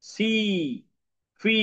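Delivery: very slow, every word drawn out for learners; slow dictation voice; slow teaching read. Shown as a demonstration. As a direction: spell it out slowly for the class. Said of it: "it says E".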